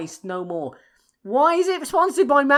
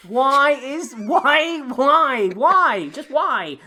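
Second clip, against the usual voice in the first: louder, repeated exasperated why; exasperated yelling; 6 dB louder, much slower than usual. Real, not acted. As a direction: hammer each why harder, half laughing.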